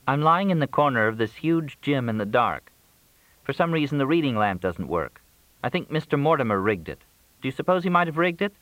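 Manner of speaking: high-pitched, plaintive hungry caller; high voice, sorry for herself; Crystal complaining. A narrator's reading.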